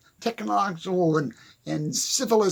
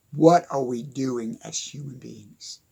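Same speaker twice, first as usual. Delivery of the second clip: despairing whisper, lower; 8 semitones lower than usual. Real, not acted. To viewers, a lower whispered lament about humanity. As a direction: whisper the question in dismay.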